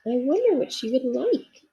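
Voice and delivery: a small toy bear fretting to himself; little bear Corduroy. Acted. Corduroy thinking aloud.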